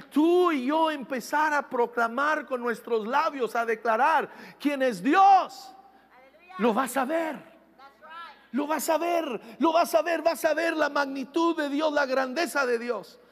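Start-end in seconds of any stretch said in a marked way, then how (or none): 3.6-7.5 preaching shout. Real, not acted. Preacher building to climax. 8.5-12.0 rising preaching shout. Real, not acted. Pastor promising the congregation they will see God, rising shout.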